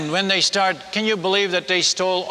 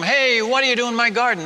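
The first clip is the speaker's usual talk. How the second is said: mild mock yell, pitched higher; higher-pitched retold challenge to the thieves; 5 semitones higher than usual. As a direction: call out at a trespasser, not full volume. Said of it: "I'd used to yell at 'em".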